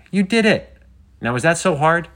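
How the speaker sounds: high, loud delighted cheer; bubbly and triumphant, well up in pitch. A narrator's reading. Penny congratulates Riven on the funny voice, cheering. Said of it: "Penny cheered".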